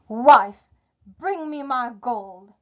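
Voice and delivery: loud, commanding one-word call. Acted. Giant summons his wife after breakfast, calling out. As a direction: summon her with a sudden loud burst.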